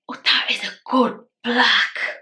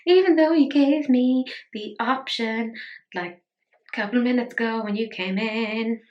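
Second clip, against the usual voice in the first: voicing the cat; 2 semitones higher than usual. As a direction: speak for the cat as a demanding child. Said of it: "she's like".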